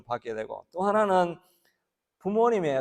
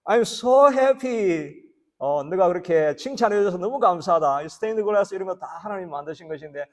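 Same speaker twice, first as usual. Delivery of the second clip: delighted God; 3 semitones higher, 5 dB louder than usual. Retold or imitated. Voicing God's delighted reply.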